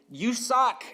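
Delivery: put-on high, loud yell of an elderly heckler; imitated elderly lady yelling; audible yell. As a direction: yell it out as an exasperated stranger in line. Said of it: "she's yelling audibly".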